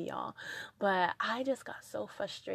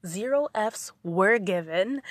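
emphatic punchline; 10 dB louder than usual. Real, not acted. Punchline after her decision.

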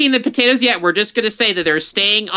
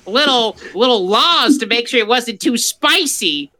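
put-on Southern accent; 3 semitones higher than usual. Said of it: "put the accent on".

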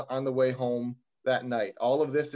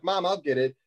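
mild yell up to Mom, slightly higher; retold call upstairs; 4 semitones higher than usual. Son letting his mom upstairs know he'll answer the door, mock yell. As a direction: imitate calling to a parent in another room, half-strength. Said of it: "I yell up to my mom".

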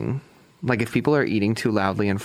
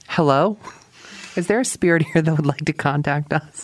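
talking to a ghost; 6 semitones higher than usual. Retold or imitated. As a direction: call out to the spirits. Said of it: "You're like".

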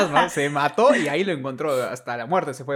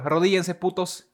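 diva command; 5 semitones higher, 4 dB louder than usual. Acted. Playing a diva.

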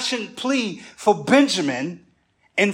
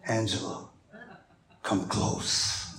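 a famous soul singer's voice; 9 semitones lower, 10 dB quieter than usual. Acted. Husband coaxing a kiss from his wife, deep seductive soul-singer voice. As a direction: drop deep and hushed to woo. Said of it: "in my soul-singer verse".

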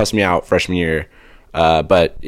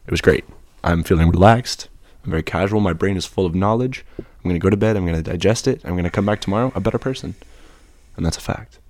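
NPR voice. Pretend. Co-host explaining his relaxed mood in a hushed NPR voice. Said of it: "talk in an N P R voice".

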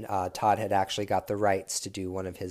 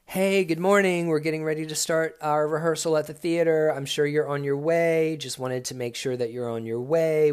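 high, bright-toned boss on voicemail, loud start; chirpy reminder call, higher and louder; Todd's cheery message; 4 semitones higher, 5 dB louder than usual. Retold or imitated. Todd leaving a friendly voicemail, cheerful imitation. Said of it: "The first voice message from Todd sounded like this".

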